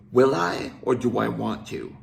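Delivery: cold, can't-be-bothered reply; dismissive. Retold or imitated. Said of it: "in a dismissive tone of voice".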